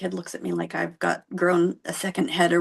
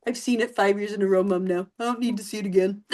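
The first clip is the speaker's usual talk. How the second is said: lightly voiced weary old man; hint of an unimpressed old-timer; jaded old man. Son talking to his mom like an old man, mildly jaded. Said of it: "like he's this old man".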